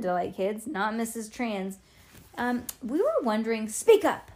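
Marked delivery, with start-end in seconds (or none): 3.7-4.3 put-on high, loud cranky old lady; grumpy shout. A narrator's reading. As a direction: bark at the shy kid. Grumpy neighbour snaps at girl.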